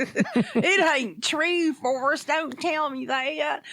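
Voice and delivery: high, stretched-out comic plea; mock lament. Friend begging Forrest to deny it, mock lament. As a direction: draw it out in pretend heartbreak.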